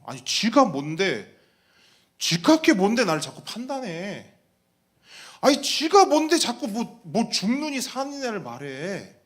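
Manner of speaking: acted scoffing, indignant complaint; scornful disbelief. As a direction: scoff as if it's laughable. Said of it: "너무나 가소롭고 웃긴 겁니다". (가소롭다는 듯 따지는 말투)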